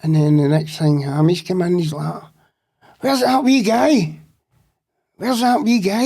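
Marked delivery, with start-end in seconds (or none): 3.0-6.0 mock urgent search call; urgent Hammy. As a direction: demand it, looking around the cell.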